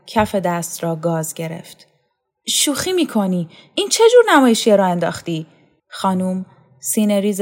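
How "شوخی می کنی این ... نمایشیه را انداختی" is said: higher-pitched, quickening challenge; incredulous protest. Acted. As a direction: demand an explanation, mildly outraged. Jilted lover challenges her in disbelief. (با ناباوری و دلخوری)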